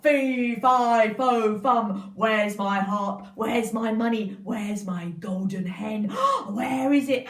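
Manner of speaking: the giant wakes and finds his harp gone, roaring; raging giant. Acted. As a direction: storm about demanding your treasures.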